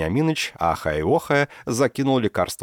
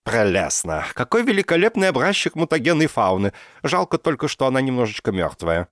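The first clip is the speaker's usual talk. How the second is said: high, louder enthusing; delighted professor; 7 semitones higher, 3 dB louder than usual. A narrator's reading. Professor admires the dead mutant in the truck, delighted. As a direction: gush over the specimen.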